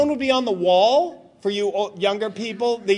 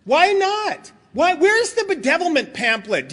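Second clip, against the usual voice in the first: higher-pitched, exasperated complaint; mock indignation; 3 semitones higher than usual. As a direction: play up an old pet peeve. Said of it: "what I always used to get mad at".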